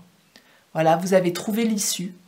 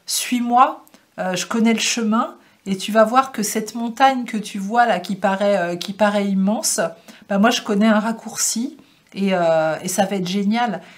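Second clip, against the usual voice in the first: speaking as the deer; 4 dB louder than usual. Acted. The deer on the card invites the viewer to follow, lightly voiced and upbeat. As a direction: lightly voice the deer, coaxing and cheerful. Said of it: "il voulait attirer votre attention pour vous dire".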